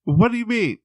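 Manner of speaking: high brazen granny voice, laughing; old lady. Retold or imitated. Patient arguing with the clinic worker, high granny voice. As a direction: push your case shamelessly.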